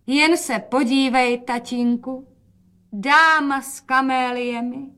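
proud presenting. Acted. Mother proudly shows daughter to father. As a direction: present her like a grand lady.

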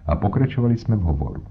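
plain reading voice

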